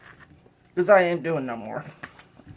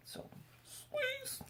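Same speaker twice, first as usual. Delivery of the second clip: hushed, breathy whisper to the lemon; 18 dB quieter than usual. Pretend. Whispering to the lemon as she squeezes it. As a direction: coax it under your breath.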